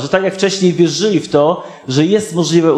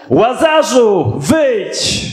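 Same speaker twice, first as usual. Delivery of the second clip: slow calling shout, higher pitch; loud call; 5 semitones higher, much slower than usual. A narrator's reading. Jesus calling Lazarus out of the grave, loud slow call. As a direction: call the dead man out of the tomb. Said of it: "zawołał donośnym głosem".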